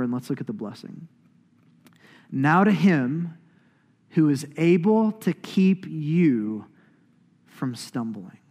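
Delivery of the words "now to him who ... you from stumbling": slow, weighty verse reading with long pauses; scripture reading. Acted.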